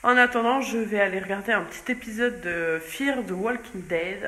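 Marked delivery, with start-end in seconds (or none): 2.8-4.2 English title in a thick French accent. Real, not acted. Woman naming her series to viewers, self-mocked French-accented English. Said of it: "avec mon bel accent anglais".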